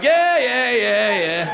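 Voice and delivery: high, eager mock agreement; mock eager reply. Comedian playing a crude guy on LinkedIn, high and eager. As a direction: pitch up, rush to agree.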